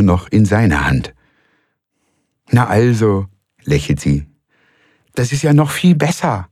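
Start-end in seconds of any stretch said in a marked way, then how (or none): 2.5-6.5 much higher, delighted woman; pleased she won; Frau Malsen pleased. A narrator's reading. Frau Malsen pleased with the café, higher.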